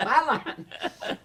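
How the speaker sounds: loud, high burst on his line; mock discovery. Actor skimming a script finds his line, loud mock glee. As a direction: exclaim it with a laugh. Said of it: "it's more like".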